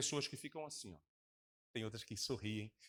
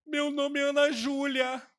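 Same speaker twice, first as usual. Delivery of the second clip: loud, high, slow sobbing reply; mock crying answer; 11 semitones higher, 9 dB louder, slower than usual. Mocking a crying believer answering the pastor, loud, high and slow. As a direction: wail the name like a weeping believer. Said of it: "Por que você tá chorando?".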